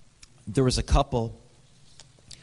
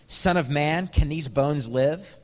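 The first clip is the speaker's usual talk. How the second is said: higher, slow, weighty question; voice of God; 5 semitones higher, 3 dB louder, slower than usual. Acted. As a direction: ask it slowly as God would. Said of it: "God, said to me".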